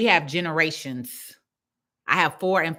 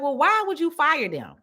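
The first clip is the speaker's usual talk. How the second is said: higher, lightly voiced questioning client; a hint of the puzzled client; imitating the client; 9 semitones higher than usual. Client asking why she would fire anyone, lightly mimicked. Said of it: "And she was like".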